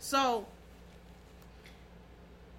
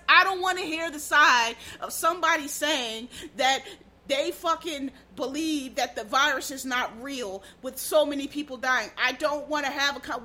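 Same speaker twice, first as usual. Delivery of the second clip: louder, rising exasperated tirade; heated rant; 5 dB louder than usual. Real, not acted. Ranting at virus deniers he refuses to debate, growing loud and angry. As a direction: get fired up and let it rip.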